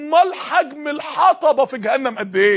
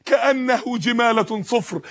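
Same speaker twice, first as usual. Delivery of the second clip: Quran recitation; slower than usual. Shown as a demonstration. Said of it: "الجمالة اللي هو السلاسل".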